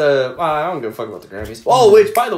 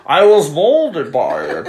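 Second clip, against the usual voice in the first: slow Bane voice; 4 dB louder, slower than usual. Retold or imitated. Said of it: "quoting Bane".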